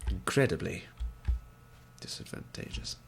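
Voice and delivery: "Incredibly" said plain, then "disadvantageous" dropped to a breathy whisper; whispered echo. Acted. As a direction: repeat "Incredibly disadvantageous" as a hushed aside to yourself. Repeats the phrase, second take whispered.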